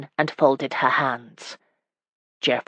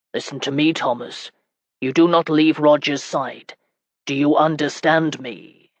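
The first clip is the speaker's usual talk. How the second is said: firm. Acted. Husband warning young Thomas to stay with Roger, understated firm. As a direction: lay down the order to the boy, steady. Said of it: "His voice was firm".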